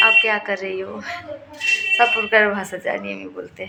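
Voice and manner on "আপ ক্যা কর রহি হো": the question switched into Hindi, said a touch louder; a proud sample of her Hindi. Shown as a demonstration. Showing viewers she speaks Hindi too, Hindi with a Bengali accent. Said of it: "Hindi ভাষায় বলবে".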